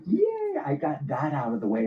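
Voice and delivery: squeaky high yay, then relieved; mock relieved yay. Wife squealing relief after hanging up, squeaky high. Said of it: "she's like".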